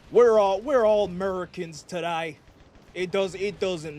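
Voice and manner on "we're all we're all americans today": mock rallying cry. Rallying speech in persona.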